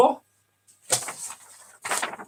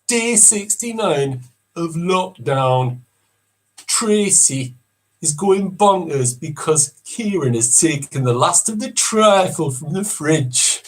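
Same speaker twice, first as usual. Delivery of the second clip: slow, deadpan voiceover; drawn-out TV narration; reality show narrator; slower than usual. Acted. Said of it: "number eight coming up".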